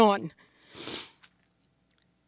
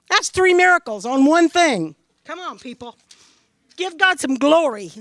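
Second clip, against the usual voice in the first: fervent exhortation; 3 semitones higher than usual. Real, not acted. Preacher exhorting the congregation.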